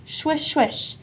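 soft, hushed sound word; soft swish. A narrator's reading. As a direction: breathe it out lightly. Grass sound effect.

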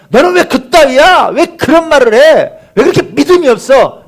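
high, loud mock rebuke; harsh scolding. Preacher imagining Jesus rebuking weak believers, angry scolding. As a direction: berate them with hammered, high-pitched questions. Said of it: "이렇게 질책하셨어요".

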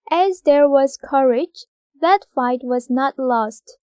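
very slow, word by word read; slow dictation. Shown as a demonstration. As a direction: dictate slowly for the class. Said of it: "이 번". (받아쓰기처럼 아주 천천히)

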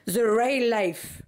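slow English with a French accent; bad French-accented English. Real, not acted. Vlogger excusing the mess behind her, bad French-accented English. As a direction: drag out the English words in a rough French accent. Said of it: "Mon accent pourri".

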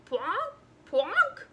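drawn-out whale sounds with words; speaking whale. Acted. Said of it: "how to speak whale".

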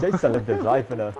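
put-on shaky stab at a British accent. Friend taking his turn at the sentence, attempted British accent. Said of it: "do it in a British accent".

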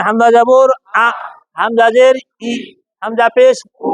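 হামজা drill with hard, cut-off আ, ই, উ; firm hamza. Shown as a demonstration. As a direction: end each of আ, ই, উ on a firm glottal attack. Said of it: "শক্ত হবে কিন্তু".

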